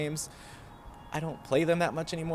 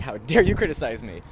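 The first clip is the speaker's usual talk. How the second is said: mock yell; 5 dB louder than usual. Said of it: "part of me wants to yell".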